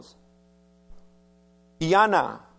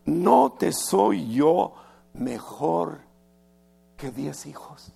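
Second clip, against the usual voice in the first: tender husband's question; slower than usual. Retold or imitated. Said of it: "Y luego dice".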